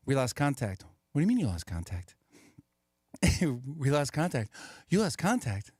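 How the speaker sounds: lightly voiced back-and-forth, echoing every line; Wahlberg repeating dialogue. Comedian acting out a train scene as Wahlberg echoing the conductor. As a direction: bounce the same words back, slightly puzzled. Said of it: "he repeats everything everyone says".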